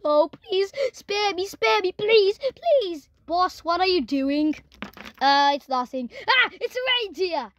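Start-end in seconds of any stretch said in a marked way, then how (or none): 0.0-3.1 pleading that climbs higher; frightened begging. Pretend. Sheriff begging the moose for mercy, mock-terrified pleading. 6.3-7.5 brief play-acted yelp of fright; mock alarm. Sheriff covering up before his boss, half-hearted panicked cry.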